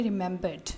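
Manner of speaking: REMEMBERED with the R and E before the D nearly silent; part-silent ending. Shown as a demonstration. Teacher shows students the softened R-E in REMEMBERED. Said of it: "थोड़ा सा silent करके".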